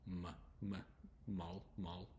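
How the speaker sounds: "mall" with a soft L at the end, after isolated "m" hums. Shown as a demonstration. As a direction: break out the "m", then let the L in "mall" end softly. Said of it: "a softer L at the end".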